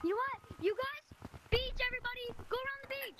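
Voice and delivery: high, urgent rallying call; excited game instruction. Real, not acted. Calling players to start the race.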